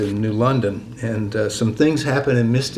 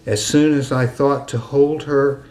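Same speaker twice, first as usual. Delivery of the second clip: measured poem recital with long pauses; deliberate verse cadence; poetry reading. Acted. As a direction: let the poem's ending settle, line by line. Reads own poem aloud.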